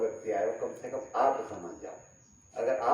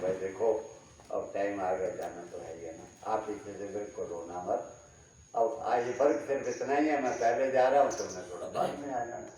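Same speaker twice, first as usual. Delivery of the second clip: calm farewell; 3 semitones lower than usual. Pretend. Dying man consoles family. (शांत, नरम विदाई)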